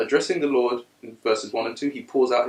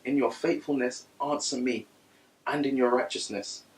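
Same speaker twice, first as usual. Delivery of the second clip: soft prayerful reading; 6 dB quieter than usual. Real, not acted. Reads the psalm softly.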